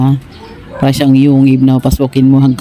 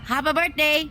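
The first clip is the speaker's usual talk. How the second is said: coaxing high voice; 11 semitones higher, 10 dB quieter than usual. Shown as a demonstration. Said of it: "coaxing parrot to repeat".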